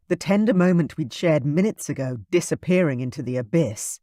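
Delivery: plain reading voice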